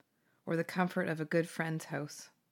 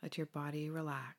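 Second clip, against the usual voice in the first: breathy whispered relaxation cue; soft spa whisper; 3 semitones lower, 8 dB quieter than usual. Acted.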